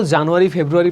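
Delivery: "জানুয়ারি, ফেব্রুয়ারি" run together with a plain Bengali "ja"; habitual Bengali-style pronunciation. Shown as a demonstration. Teacher quoting how learners habitually read months, Bengali-style. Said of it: "এইভাবে পড়লে চলবে না".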